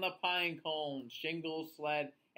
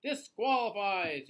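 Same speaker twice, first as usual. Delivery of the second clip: yelling; 3 semitones higher, 5 dB louder than usual. Acted. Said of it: "yells Jinglebert".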